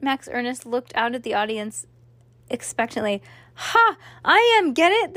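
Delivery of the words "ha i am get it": very high, raised, hearty cry; man shouting. A narrator's reading. Father shouts the punchline from the audience, high excited shout. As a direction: shout the punchline with forced glee. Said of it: "the man shouted".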